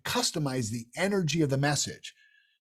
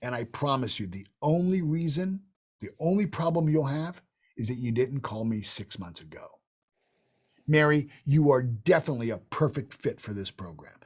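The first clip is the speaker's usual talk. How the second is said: absolute certainty; 2 semitones lower than usual. Shown as a demonstration. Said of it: "there's the absolute certainty".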